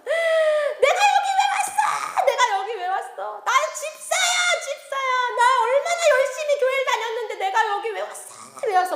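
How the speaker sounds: high, loud wail of protest; screaming woman. Acted. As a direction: cry out in anguished disbelief, stretching the words. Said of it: "한 여자가 막 소리를 지르면서". (울부짖는 여자의 비명)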